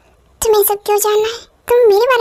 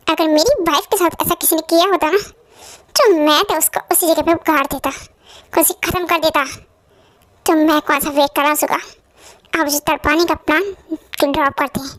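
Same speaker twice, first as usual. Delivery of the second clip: cold threat; 5 semitones lower than usual. Acted. Husband vowing revenge.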